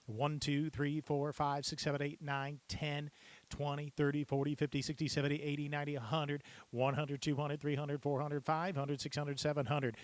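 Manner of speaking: crisp popped-out numbers, each one clear; popping numbers. Shown as a demonstration. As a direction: pop every number cleanly like at an auction. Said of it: "be able to pop those numbers".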